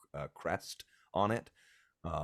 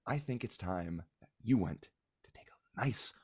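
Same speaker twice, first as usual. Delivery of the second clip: firm mother. Acted. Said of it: "claps a hand over his mouth".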